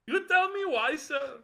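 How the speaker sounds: high-pitched fake Indian accent; mock Indian accent. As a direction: ham up a put-on Indian accent. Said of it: "there's no comedy behind this accent".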